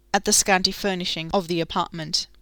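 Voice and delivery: usual speaking voice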